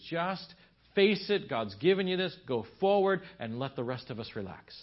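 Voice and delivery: retold wife laying down the law, punching key words; exasperated plea.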